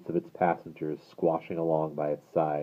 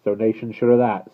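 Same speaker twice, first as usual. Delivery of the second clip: gruff soliloquy; 4 semitones higher, 7 dB louder than usual. Acted. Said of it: "said the guard in a gruff soliloquy".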